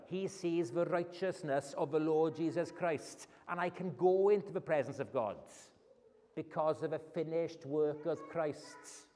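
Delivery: ordinary talk, nothing marked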